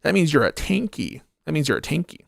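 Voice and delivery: mocking whiny critic. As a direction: whine it like a pearl-clutching commenter, then let it sink. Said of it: "there's like".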